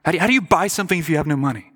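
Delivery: "how do you buy something" rattled off fast; quick repeat. Shown as a demonstration. Preacher re-asking the congregation, fast. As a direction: fire the question off rapidly. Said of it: "That's what the Lord's telling them".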